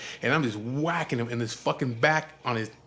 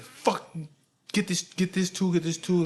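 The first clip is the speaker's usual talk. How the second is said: raised-pitch irritated ordering, mimicked; losing it; 5 semitones higher than usual. Father demanding tools while working, losing it. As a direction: imitate an exasperated mechanic demanding tools. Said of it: "He's already losing his shit".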